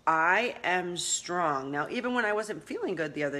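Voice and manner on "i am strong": firm declaration. Shown as a demonstration. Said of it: "you go".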